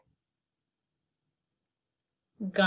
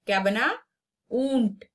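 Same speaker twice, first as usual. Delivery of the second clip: ordinary delivery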